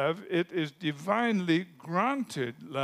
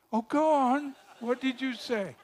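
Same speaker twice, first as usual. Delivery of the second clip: put-on higher, playful coaxing girl voice; 7 semitones higher than usual. Girl teases the shy boy to say it again.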